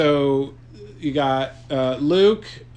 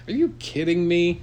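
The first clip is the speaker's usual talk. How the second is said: laughing; 3 semitones higher than usual. Real, not acted. Repeats partner's line laughing.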